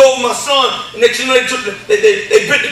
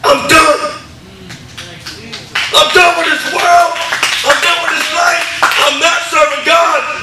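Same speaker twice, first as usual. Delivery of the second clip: retold outburst, pitched up and pushed; emphatic quitting; 3 semitones higher, slower than usual. Retelling a phone call to a friend to quit, emphatic and fed up.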